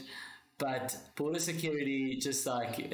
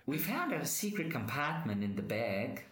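weak attempt at Australian accent; half-hearted Australian accent officer; bad Australian accent. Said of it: "my Australian accent's so bad".

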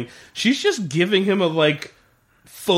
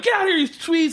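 mock villain yell, pitched high; bad guys yelling; 13 semitones higher than usual. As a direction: imitate an angry thug ordering people out. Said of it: "you hear the bad guys go".

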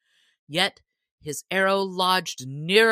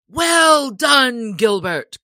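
high, loud joyful shout; joyous cry; 7 semitones higher, 10 dB louder, slower than usual. Acted. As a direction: cheer him on with joy. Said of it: "cried the sheriff right joyously".

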